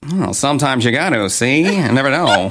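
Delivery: put-on old-timey mid-Atlantic man about town; mid-Atlantic accent. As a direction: play a smooth old-time charmer. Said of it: "you talk in a mid-Atlantic accent sometimes".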